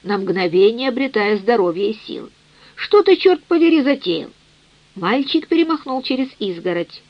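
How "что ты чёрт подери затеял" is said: a raised, angry bellow jumping high; mock-angry father shouting; roaring. A narrator's reading. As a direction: bark it out at the boy on the roof. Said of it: "взревел владыка дома".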